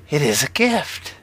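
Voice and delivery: high-pitched witch voice. A narrator's reading. Witch handing a gift to Brenner, high witch voice. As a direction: speak as a witch, lifting the pitch.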